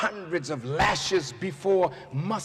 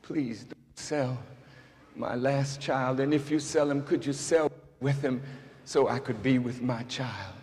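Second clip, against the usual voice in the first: pleading; 3 semitones lower than usual. Retold or imitated. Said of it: "begged him, crying".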